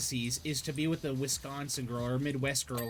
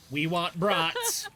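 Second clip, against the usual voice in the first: mock Midwestern mom; 3 semitones higher, 5 dB louder, much slower than usual. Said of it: "why she sounds like this".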